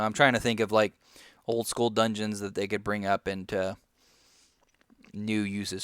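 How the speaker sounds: talking while chewing gum; words round a wad of gum. Real, not acted. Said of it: "Sorry, I'm chewing on some gum here".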